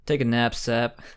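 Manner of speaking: flat, deadpan hero quip; Tobey Maguire monotone. Retold or imitated. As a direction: say it in a bored monotone. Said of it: "very monotone voice acting".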